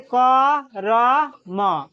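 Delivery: क र म read slowly, sound by sound; slow syllable-by-syllable spelling; spelled out letter by letter. Shown as a demonstration. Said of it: "उसी प्रकार से".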